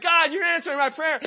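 high, loud, excited prayer; pumped. Retold or imitated. Runner thanks God for answered prayer, pumped. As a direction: exclaim it to God, all pumped up. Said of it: "I mean, I am pumped".

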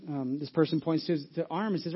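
ordinary talk

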